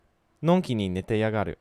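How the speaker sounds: quick shadowed take of のんきに寝てやがる, the の leading; shadowing the clip. Shown as a demonstration. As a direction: copy the anime line のんきに寝てやがる fast. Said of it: "So let's try that again".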